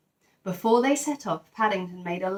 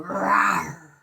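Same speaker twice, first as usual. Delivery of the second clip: lion roar; 3 dB louder than usual. Acted. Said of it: "it gave a great roar".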